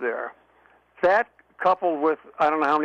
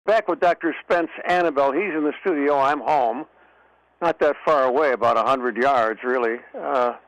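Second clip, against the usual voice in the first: far from mic. Real, not acted. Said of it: "that's why I sound far away".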